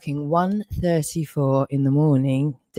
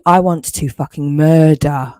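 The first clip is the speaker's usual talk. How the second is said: seething anger. Real, not acted. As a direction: threaten them, cold and furious. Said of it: "I'm fucking well angry".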